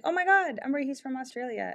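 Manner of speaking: gushing, pitched high on oh my God; imitating an excited friend, lightly. Friend Belle excitedly telling her about the Australian guy. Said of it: "And then she was like".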